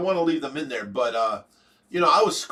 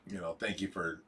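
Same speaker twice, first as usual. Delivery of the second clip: softer, lower, heartfelt thanks; sincere gratitude; 9 semitones lower, 7 dB quieter than usual. Real, not acted. Host thanking a viewer for prayers, sincerely grateful. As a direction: let it drop low and quiet, truly grateful.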